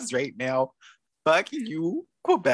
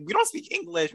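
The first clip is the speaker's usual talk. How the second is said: high, mocking sing-song; mock snooty Quebec girl; 14 semitones higher than usual. Mocking Quebec girls who refuse English, high mock snooty voice. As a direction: parody a haughty Quebec girl in a raised voice. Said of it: "And now they're over here like".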